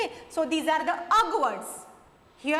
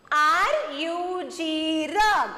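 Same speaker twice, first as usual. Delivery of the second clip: slow, spelled out, louder at rug; much slower than usual. Shown as a demonstration. Teacher spelling a word loudly for children. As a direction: spell it out loud for the class. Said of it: "Tell me".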